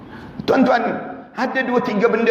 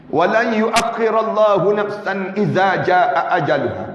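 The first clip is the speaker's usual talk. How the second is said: Quranic recitation. Real, not acted.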